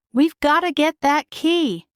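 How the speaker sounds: a little mouse crying out; lightly voiced eager mouse. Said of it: "Jack cried".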